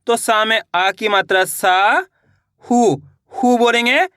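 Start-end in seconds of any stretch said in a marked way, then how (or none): 0.2-0.4 "सा" held long, rising at the end; slow, sustained "सा" for dictation; stretched vowel. Shown as a demonstration. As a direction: draw the आ of "सा" right out. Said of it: "सा का उच्चारण खींच को रहा है".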